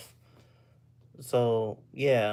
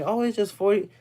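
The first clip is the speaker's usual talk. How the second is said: put-on Australian accent; 6 semitones higher than usual. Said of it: "I can't even do Australian accent".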